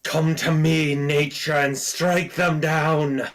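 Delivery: a touch of a grand druid calling nature; menacing druid. Acted.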